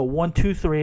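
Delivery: mock Borat accent. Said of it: "she would go".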